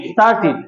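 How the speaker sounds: স্টার্টেড ending in "-tit", with short i; corrected pronunciation. Shown as a demonstration. Teacher models the past tense of start, corrected pronunciation. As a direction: say the last vowel of স্টার্টেড as i, not e. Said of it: "নাকি স্টার্টেড বলবো আমরা?".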